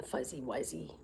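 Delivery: soft unvoiced whisper to the cat. Real, not acted. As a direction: whisper so the cat stays calm.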